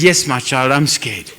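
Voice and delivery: mother's faint scared answer; frail whisper-soft reply. Retold or imitated. Dying mother voiced in story.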